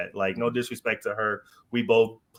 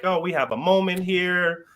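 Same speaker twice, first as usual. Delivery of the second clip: announcer voice; 8 semitones higher, 4 dB louder, slower than usual. Retold or imitated. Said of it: "she gets out there and was like".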